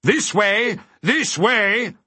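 high, beckoning call. A narrator's reading. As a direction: call them over in a high voice. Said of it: "the voice called again".

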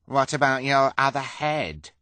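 high, loud mocking question; pimpled bully's sarcastic taunt. A narrator's reading. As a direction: needle them with sarcasm. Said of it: "the pimpled man asked sarcastically".

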